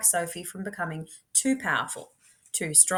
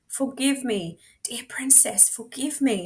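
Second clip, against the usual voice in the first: a hint of a pleading huntsman; understated begging huntsman; 4 semitones higher than usual. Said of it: "he begged".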